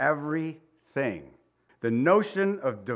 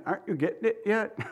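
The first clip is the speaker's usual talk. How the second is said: laughing; 6 semitones higher, faster than usual. Acted. Paraphrasing Jesus teasing Philip.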